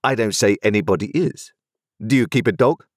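a crisp, authoritative London lawyer; stern lawyer voice. A narrator's reading.

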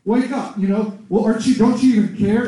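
mock-alarmed plea, rousing a sleeper; imitating flustered disciples; mildly freaking out. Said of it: "the disciples are freaking out".

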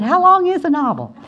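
high, loud, laughing retelling; bubbling over as you retell it; giddy excitement. Retold or imitated. Asking the agent how long a novel is, giddy and laughing.

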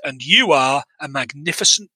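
measured, cold film-villain read; quoting the film's way. Retold or imitated. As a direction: savour every word of the insult. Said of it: "It's the way he says it".

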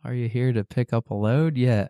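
a light imitation Amish dialect; Amish accent. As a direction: put on a hint of Amish talk. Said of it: "Let us hear your best Amish".

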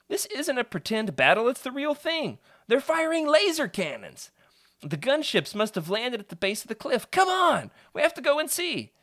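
put-on high, eager boy urging his friend; excited kid voice. Peter urging his friend toward the gunships, high excited kid voice. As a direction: push him to come see the battle.

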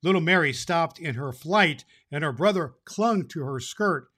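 lively storybook read-aloud; story narration. A narrator's reading. Santa reading the chapter to boys and girls, storytelling voice. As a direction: read it like a bedtime story to a crowd of kids.

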